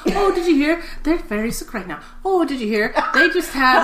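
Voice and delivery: lightly acted hushed-news busybody; imitated Southern gossip. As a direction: mimic a relative passing on sad news. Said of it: "that is actually quite similar".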